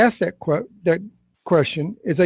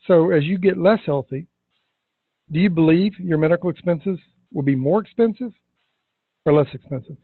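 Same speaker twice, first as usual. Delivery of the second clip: long pause after "more expensive", before "or less expensive"; awkward pause. Shown as a demonstration. Coach asks Sarah, pausing awkwardly after "more expensive". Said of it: "how I used the awkward pause".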